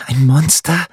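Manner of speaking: high, shrill-pitched outraged cry; screaming accusation. A narrator's reading. Margarete to her mother, screaming in outrage. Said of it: "schrie Margarete".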